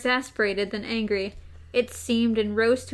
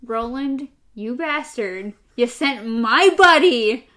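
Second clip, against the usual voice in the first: mock angry accusation; 7 dB louder, slower than usual. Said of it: "that minor flicker of".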